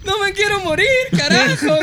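high laughing cry of panic; mock scream. Jesse on the bumpy flight, mock panicked high cry. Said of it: "gritó el Jesse".

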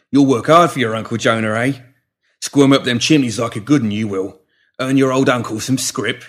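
lightly voiced rough-spoken uncle, punchy; a hint of a hard taskmaster; bullying Uncle Jonah. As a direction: lean on the child with a touch of menace. Jonah's dialogue to the girl.

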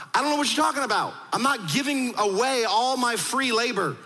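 lightly acted indignant dismissal; dismissive Pharaoh. Pharaoh's scornful refusal acted out.

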